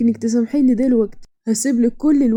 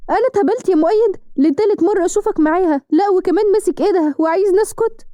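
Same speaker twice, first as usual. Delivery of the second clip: higher, indignant outburst at her husband; furious accusation; 5 semitones higher than usual. Acted. Wife catching her husband with another woman, outraged higher outburst. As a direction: hurl it back at him, outraged.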